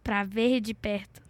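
punchline through a laugh; telling a dad joke. Real, not acted. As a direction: deliver the pun giggling.

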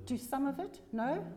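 puzzled rising question at the misread line; surprised self-correction. Real, not acted. Pastor catching her own misreading of the verse, puzzled. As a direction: check the words aloud, puzzled.

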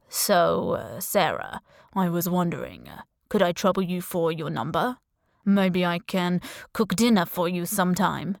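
hesitant, courting foreign charmer; lightly voiced suitor, feeling his way to a date; accented charmer. The speaker's put-on charming figure.

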